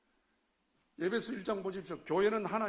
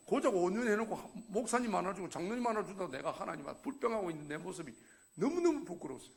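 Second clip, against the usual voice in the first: ordinary delivery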